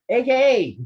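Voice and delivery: hammed-up wrestler promo, swinging high and loud; Nacho Man. Wrestler boasting to Mean Gene backstage, Nacho Man promo voice. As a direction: cut a rambling, swaggering wrestling promo. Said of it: "that was Nacho Man, I'm a Savage".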